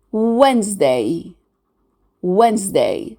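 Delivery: "Wednesday" as WENZ-day, first D dropped; silent D. Shown as a demonstration. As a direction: model Wednesday twice, without the first D and middle E. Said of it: "So we drop out the D letter".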